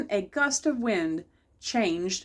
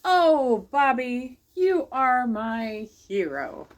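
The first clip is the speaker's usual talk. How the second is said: high and slow, swooning with gratitude; loud and lingering, draw out the praise; gushing teacher; 3 semitones higher, 5 dB louder, much slower than usual. Acted. Teacher gushes at Bobby for saving her hat.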